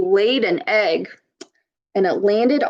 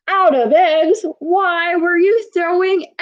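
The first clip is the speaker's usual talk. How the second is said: high, incredulous question; a mom who can't believe what she's hearing; mock shocked mother asking why; surprised mom; 8 semitones higher than usual. Mom shocked at the egg fight.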